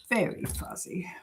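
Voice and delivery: whispered repeat of "Very fuzzy"; whispering. Real, not acted. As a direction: drop to a breathy whisper on "Very fuzzy". Repeats comment on fuzzy picture.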